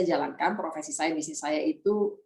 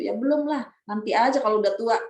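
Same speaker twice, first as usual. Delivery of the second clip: raised pitch, quick offhand dismissal; retold careless blurt; 5 semitones higher than usual. Young woman putting off the hajj, retold careless blurt. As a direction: toss it out unthinking, as your younger self. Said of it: "yang umur gitu keceplosan aja kan".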